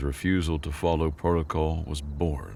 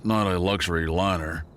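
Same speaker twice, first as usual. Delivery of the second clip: sharp retort; 3 semitones higher, 4 dB louder than usual. A narrator's reading. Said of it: "Falk shot back".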